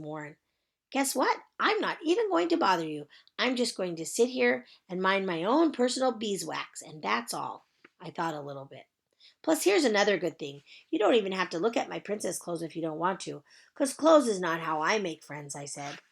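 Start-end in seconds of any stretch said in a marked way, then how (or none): 0.9-7.7 put-on high, bright child's greeting; chirpy little girl. Junie B. character voice. 9.4-15.5 put-on chirpy little girl. Junie B. character voice.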